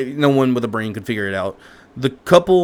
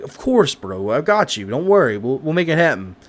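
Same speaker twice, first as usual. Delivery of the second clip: a pitched-up "of course", then easy bro talk; breezy bro. Retold or imitated. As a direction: reassure a buddy, casually. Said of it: "And he's like".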